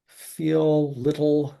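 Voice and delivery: slow careful Feel little; slow pronunciation demo. Shown as a demonstration. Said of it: "how do you say little".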